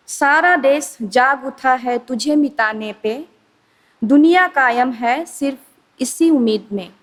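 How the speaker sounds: measured rhyming-verse delivery; poem recitation. Acted. Presenting her short poem on the corona pandemic, poem recitation. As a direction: recite in couplets, pausing after each line.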